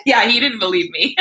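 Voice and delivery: real laugh bubbling up at the end; amused laughter. Real, not acted. Wife telling viewers her husband doubted her, amused laughter. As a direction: say it lightly, breaking into a laugh.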